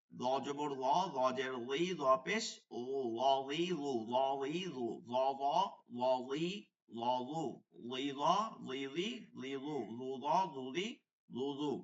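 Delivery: ল said thick and full-mouthed, Arabic emphatic; heavy ল. Shown as a demonstration. Teacher drilling a difficult Arabic letter, heavy thick ল. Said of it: "লটা হচ্ছে মোটা".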